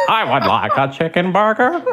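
laughing comic voice; put-on voice. Shown as a demonstration. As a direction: order it in a silly character voice.

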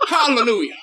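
high, hammed-up churchy praise; mock hallelujah. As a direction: sing out like a revival crowd. Mocking preacher, hallelujah.

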